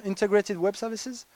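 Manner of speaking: English buzzwords in a French accent. Real, not acted. French presenter reading English jargon in a French accent. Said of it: "excusez mon accent".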